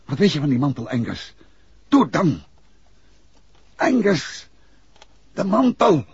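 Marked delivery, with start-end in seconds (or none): 1.9-6.0 higher, louder urgent pleading; urgent call. Acted. Vlaanderen urges the dying Angus to say more, urgent and louder. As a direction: press him hard to get it out. Urging dying man to speak.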